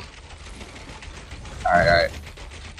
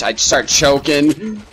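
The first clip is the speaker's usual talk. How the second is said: nervous; 7 semitones higher than usual. Real, not acted. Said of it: "I get so scared".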